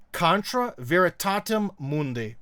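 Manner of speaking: Latin "Contra veritatem mundi" said slowly with a heavy American accent; slow Latin in a thick American accent. Shown as a demonstration. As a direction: read the Latin like an American who can't pronounce it. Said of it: "with a thick American accent".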